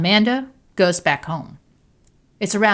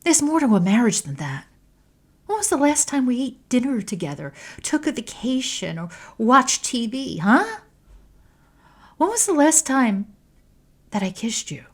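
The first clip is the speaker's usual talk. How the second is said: higher, heated questioning; raised, hurt anger; angry; 7 semitones higher than usual. A narrator's reading. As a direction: pile the grievances on her. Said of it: "asks angrily".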